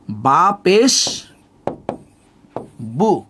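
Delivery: "বা পেশ বু" spelled out slowly, ending on oo; pesh as u-kar. Shown as a demonstration. Teacher shows learners the pesh vowel, slowly reciting "বা পেশ, বু" with oo. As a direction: draw out "বা পেশ" very slowly, pause, then say "বু" with an oo. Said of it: "উকারের মতো করে হবে".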